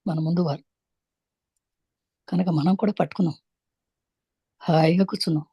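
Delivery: measured meditation-teacher delivery with long pauses; unhurried spiritual instruction, phrase by phrase; guided meditation. Real, not acted. Leads a breath meditation.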